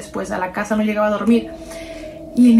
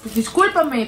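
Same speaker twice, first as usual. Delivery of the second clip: nervous apology; 2 semitones higher than usual. Retold or imitated. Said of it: "toda nerviosa".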